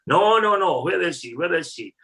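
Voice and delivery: loud, high insistent no no, then demanding where is he; angry demand. Retold or imitated. Russian chef shouting at newspaper reception, furious and loud. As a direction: retell the chef's furious refusal to leave.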